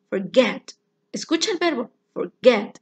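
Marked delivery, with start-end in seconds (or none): 0.1-0.7 "Forget" with the stress on GET; stress on second syllable. Shown as a demonstration. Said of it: "que suena más fuerte". 2.1-2.8 "forget" with its second syllable stronger; stress on GET. Shown as a demonstration. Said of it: "Get es la sílaba más fuerte".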